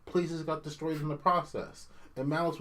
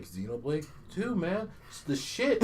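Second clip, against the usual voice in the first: mock fanboy praise; 4 semitones higher than usual. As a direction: imitate a smug fan. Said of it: "everyone's like".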